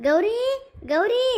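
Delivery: calling out. Acted. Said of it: "ಇಷ್ಟೊಂದು ಜೋರಾಗಿ ಕೂಗ್ತಾ ಇದ್ದೀನಿ".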